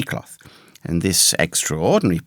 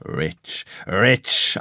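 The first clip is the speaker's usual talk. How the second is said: hotly insistent. A narrator's reading. Castaway repeating his claim to a doubting Jim, mildly heated insistence. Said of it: "he repeated the statement hotly".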